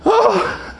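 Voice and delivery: high-pitched, hammed-up shocked "what"; exaggerated squeal of alarm; mock freak-out. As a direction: play the disciples panicking, voice leaping up. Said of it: "they're freaking out, going".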